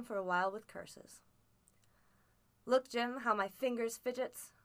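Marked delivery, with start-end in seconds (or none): 2.6-4.5 put-on a touch of pleading from the old captain. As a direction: beg the boy, mildly. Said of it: "he continued in the pleading tone".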